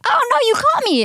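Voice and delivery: high, playful mock-guilty voice; dog caught out. Dog spotted by its owners on a walk, high mock-guilty voice. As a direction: voice the dog as if caught red-handed.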